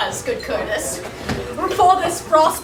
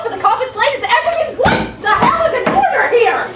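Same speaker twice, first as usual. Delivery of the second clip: frantic questions; 5 semitones higher, much faster than usual. Acted. Grumio barking questions at servants.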